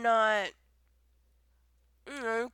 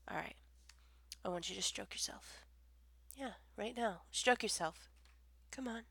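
hushed, near-whispered urging; very soft, seductive instruction; intimate coaxing; 15 dB quieter than usual. Acted. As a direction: murmur it softly, trailing into breath. Intimate coaxing in acted call.

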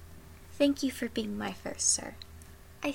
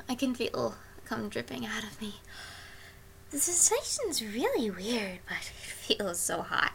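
whispering; 5 dB quieter than usual. Acted. Intimate afterglow whisper.

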